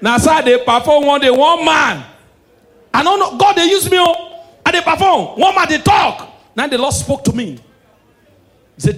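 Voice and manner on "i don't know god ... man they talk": frenzied mock prophet. Comic mimics a fake prophet calling on God. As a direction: wail it like a possessed pastor.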